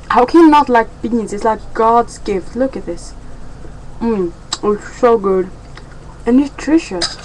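chewing between words; mouth full. Real, not acted. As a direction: talk around a bite of food. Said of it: "I'm talking with my mouth full".

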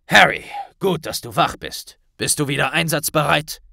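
a lightly voiced solemn minister; grave Kingsley. A narrator's reading. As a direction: minister briefing Harry and Hermine, grave. Kingsley greets Harry.

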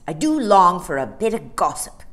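a hint of a hearty bear; host them eagerly; friendly polar bear. A narrator's reading. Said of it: "the bear".

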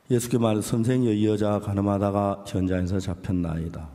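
measured, solemn Bible reading; scripture reading. Acted. Pastor reading the Gospel to the congregation, solemn reading voice. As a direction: read the passage to the congregation.

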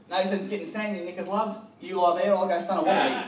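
put-on a light Australian accent for a cheesy pickup line. Comedian trying an Australian chat-up line on the women, light Australian accent. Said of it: "an Australian chat up line would be something like".

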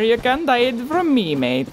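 put-on a light Scottish or Irish accent, teasing. Taunting the hiding rogue enemy, light Scottish accent. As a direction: taunt him in a half-Scottish lilt. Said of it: "Don't know why I got Scottish".

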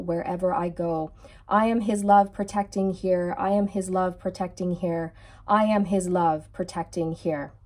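measured, rhythmic decree reading; steady prayerful recitation. Real, not acted. Repeats the decree.

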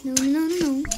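loud despairing no's; anguished denial. Real, not acted. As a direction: protest in anguish. Reacting to something going wrong.

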